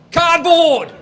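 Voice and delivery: high, loud laughing yell; laughing shout. Real, not acted. Host shouting about his cardboard banner, laughing. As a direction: burst out with a laugh.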